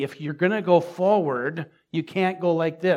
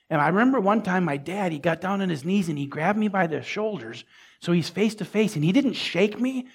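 normal talking voice

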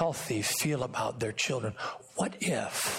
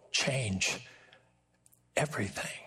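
breathy hushed final word; whisper. Real, not acted. Preacher hushing the congregation on the last word. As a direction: let it fall away into a hush. Sermon climax drops to whisper.

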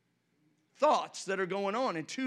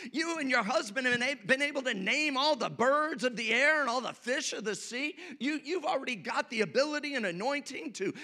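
sweet-talking serpent; 5 semitones higher than usual. Acted. Serpent voiced sweet-talking Eve.

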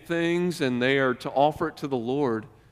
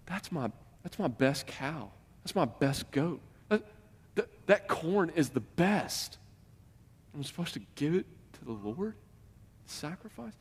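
reluctant Israelite; 8 dB quieter than usual. Retold or imitated.

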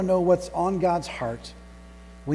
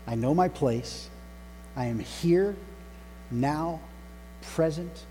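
measured, lower-pitched prayer in short phrases; 3 semitones lower, 4 dB quieter than usual. Acted. Servant telling God he is ready to listen, prayerful. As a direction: pray it deliberately, pausing after each phrase.

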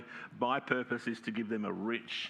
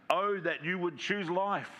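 higher, slow longing plea; pleading voice of God; 7 semitones higher, slower than usual. Acted. God pleading with his people, slow and high. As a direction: let the Oh rise like a yearning sigh. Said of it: "This is God speaking".

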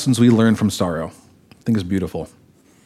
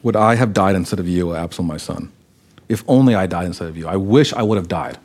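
lower, softer, broken lament; quiet grief; 6 semitones lower, 3 dB quieter than usual. Acted. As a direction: grieve it almost to yourself. David's lament repeated softly.

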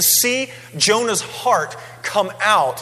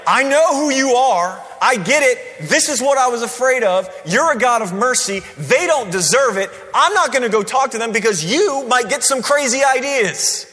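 raised, louder, sulky complaint at God; mock angry Jonah; 5 semitones higher, 3 dB louder than usual. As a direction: play the grumbling prophet, hammed up. Preacher voices Jonah's angry complaint.

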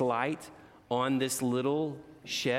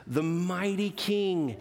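slow, higher, louder royal announcement; announcing the mighty king to the children; grand proclamation; 7 semitones higher, 3 dB louder, slower than usual. A narrator's reading. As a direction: proclaim it like a herald.

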